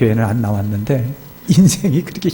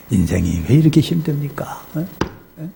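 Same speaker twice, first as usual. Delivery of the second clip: put-on drunken lament. Drunk village head laments to preacher.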